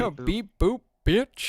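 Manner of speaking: high, loud mock robot beeps. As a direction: beep it out like a glitchy robot. Mocking robot glitch.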